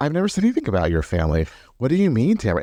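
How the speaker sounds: put-on condescending, patronizing sing-song, quick pace. Retelling how he brushed off Tamara: imitating a soft patronizing voice. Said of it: "that soft voice of like".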